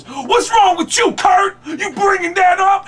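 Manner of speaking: mock-furious, slow high shout; loud, stretched-out comic outrage; Tracy Morgan. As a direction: flip out in a hammed-up impersonation. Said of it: "Tracy flips out and goes".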